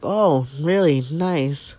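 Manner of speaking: high mock-bright sarcasm; sarcastic. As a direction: toss it off with biting irony. Sarcastic reply to husband.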